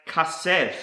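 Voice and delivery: kasef said kah-SEF; Hebrew pronunciation. Shown as a demonstration. Teacher introducing a Hebrew word, kasef pronounced kah-SEF. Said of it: "is pronounced".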